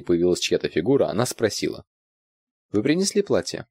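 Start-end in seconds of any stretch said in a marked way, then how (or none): 2.7-3.7 higher questioning woman's voice; Irina voiced. A narrator's reading. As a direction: voice Irina asking.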